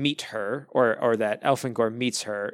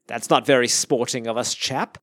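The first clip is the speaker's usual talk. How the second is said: a light semi-British accent, lightly voiced; a hint of British gentleman, "chap" for the alien. Co-host voicing Elfangor to the other host, light semi-British accent. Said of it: "I had to say that in a semi-British accent".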